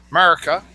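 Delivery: America squashed to "Murca"; slurred 'Murca. Acted. Host mocking the word America, slurred 'Murca. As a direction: say America as a clipped-vowel 'Murca. Mock folksy take on America.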